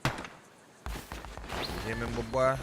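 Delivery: loud, slow commanding preach; booming plea. Acted. Cult leader ordering his followers to pray, loud and slow. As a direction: demand prayer like a preacher.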